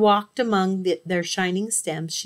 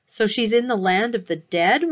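wailing; 3 semitones higher, 4 dB louder than usual. Acted. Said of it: "wailed Demeter".

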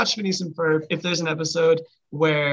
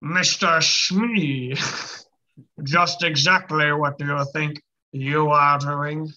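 Captain Hook impression; much slower than usual. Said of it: "Again, the low voices".

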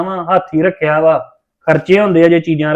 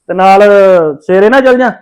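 calling out; 2 semitones higher, 6 dB louder than usual. Acted. Brother calls back while leaving.

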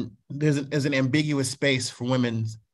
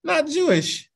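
mock disdain; 10 semitones higher, slower than usual. Mocking excluders' judgment.

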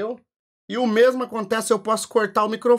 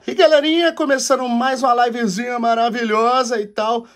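mock stream opening; 5 semitones higher than usual. Shown as a demonstration. Showing how he opens the stream for his audience. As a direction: kick off the live with a hype hello. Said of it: "eu vou fazer isso aqui".

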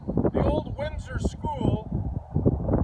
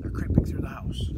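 a soft, low hushed storyteller voice; creeping hush; 9 semitones lower, 3 dB quieter than usual. A narrator's reading. Storyteller hushes children as the animals sneak in, low and quiet.

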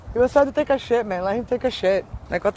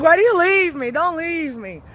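whiny dramatic puppy; 4 semitones higher than usual. Retold or imitated. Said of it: "you're dramatic".

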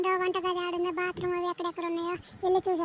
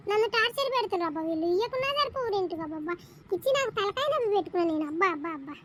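grumbling landlady; 5 semitones higher than usual. Acted. Landlady complaining about the new tenant's child, weary grumble. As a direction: sigh out each abba like a fed-up old owner.

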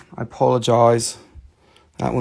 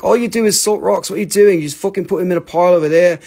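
mock nagging friend, a little higher; imitated needling, slightly raised voice; making fun; 4 semitones higher, faster than usual. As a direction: tease with exasperated disbelief. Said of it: "he makes fun of me".

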